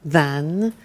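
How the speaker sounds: slow teacher model; slow model answer. Shown as a demonstration. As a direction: spell it out for learners. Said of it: "Very good".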